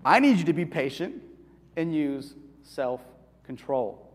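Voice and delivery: calm parent. Retold or imitated. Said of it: "Instead of".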